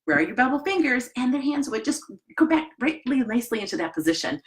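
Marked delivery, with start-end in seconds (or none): 0.0-1.1 teacher's prompt. Retold or imitated. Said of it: "I could say to students".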